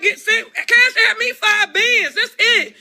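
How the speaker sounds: yelling terms at the men through laughter; laughing demand. Retold or imitated. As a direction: demand the money while cracking up. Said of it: "So I was just like".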